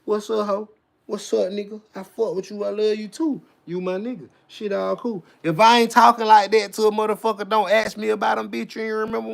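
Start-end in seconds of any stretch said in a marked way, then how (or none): 0.0-5.2 friendly greeting voice. Shown as a demonstration. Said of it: "see me like this with the bitch".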